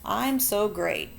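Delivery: loud, bragging know-it-all voice; boastful show-off. Pretend. Teacher mocking a bragging kid, boastful and loud. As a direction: brag loudly like the class show-off. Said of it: "you walk around saying, like".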